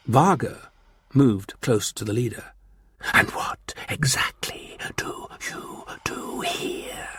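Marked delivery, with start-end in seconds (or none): 3.1-7.1 slow, soft menacing whisper; asked softly. A narrator's reading. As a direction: ask it softly, with quiet threat. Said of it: "he asked softly".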